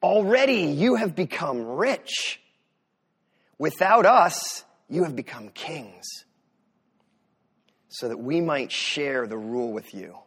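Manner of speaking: slow mock praise, sinking at the end; lightly sarcastic, stretched-out scripture reading. Preacher reading Paul's jab at the Corinthians, mildly sarcastic. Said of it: "Paul is being sarcastic here".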